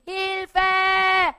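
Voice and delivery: high loud cry of Hilfe; cry for help. Acted. Preacher voicing the heart's cry, loud shout.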